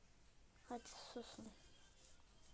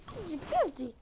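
yelling; 2 semitones higher, 4 dB louder than usual. Acted. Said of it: "ne bağırıyorsun hayvan gibi".

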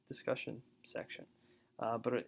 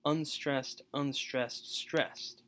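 "unstressed, unstressed, stressed" set out in separate, raised beats; anapest pattern; 3 semitones higher, 3 dB louder, much slower than usual. Shown as a demonstration. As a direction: count out "unstressed, unstressed, stressed" one by one. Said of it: "anapests, so that's".

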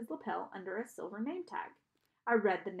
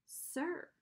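put-on higher, softer boy's echo; obedient echo; 7 semitones higher, 5 dB quieter than usual. A narrator's reading. Boy echoes Charon's prompt, soft obedient echo. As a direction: repeat it back softly, pitched up. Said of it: "I said".

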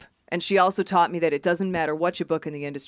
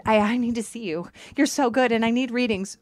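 slightly higher, eager pleading; needy fan; 4 semitones higher than usual. Retold or imitated. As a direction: lightly imitate an insistent admirer.

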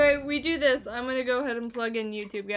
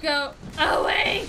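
drawn-out shout; 3 semitones higher, 7 dB louder, slower than usual. Real, not acted. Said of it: "repeated as a shout".

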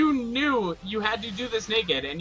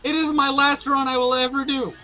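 higher-pitched, heated pleading; upset insistence; 4 semitones higher than usual. Real, not acted. Begging a friend not to ruin the last run, upset insistence.

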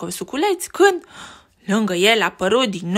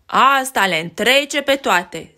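exclaiming; 4 dB louder, slower than usual. Acted. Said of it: "strigă micuța Betty".

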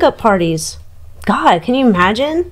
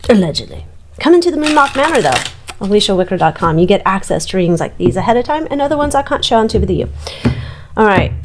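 ordinary talk, nothing marked

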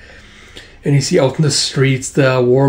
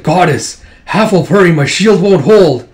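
straining call; 4 semitones higher, 5 dB louder than usual. Acted. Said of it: "He's like".

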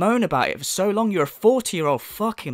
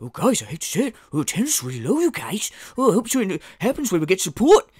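put-on woeful streamer voice; mocking lament that swoops up and down; mock moaning; 3 semitones higher, faster than usual. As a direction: imitate a streamer lamenting to fans. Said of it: "You moan about them".

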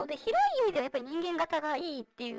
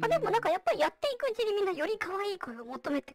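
vocoder. Real, not acted. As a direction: voice changer voice. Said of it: "今私がやってるようにボイスチェンジャー使ってる". (ボイスチェンジャーの声)

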